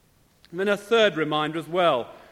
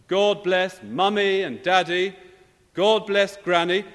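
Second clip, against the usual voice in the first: put-on raised, louder child's bedtime prayer; boy praying aloud; 3 semitones higher, 5 dB louder than usual. Little boy prays for family downstairs to overhear, loud. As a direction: pray aloud so it carries downstairs, building. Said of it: "suddenly they hear a prayer beginning. ... louder and louder".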